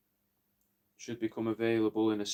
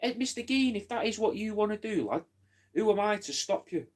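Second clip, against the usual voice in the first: much higher put-on voice, quoting himself; mock deferential reply; 9 semitones higher than usual. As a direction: pitch it way up, pleading innocence. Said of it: "And I was like".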